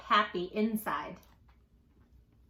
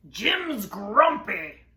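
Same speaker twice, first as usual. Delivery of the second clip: drawn-out, loud "Jim's grumpy"; slow tattling; 7 dB louder, much slower than usual. Acted. Norman telling Marabou about Jim, slow and loud. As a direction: tell on him slowly.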